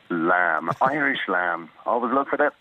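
spaced-out voiceover slogan on request; ad catchphrase. Shown as a demonstration. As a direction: deliver it like an advert tagline. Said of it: "Go on, say lamb for us".

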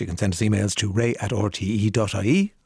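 smooth radio presenter voice. Real, not acted. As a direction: put on the DJ voice. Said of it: "Why am I speaking like this, like a D J on the radio?".

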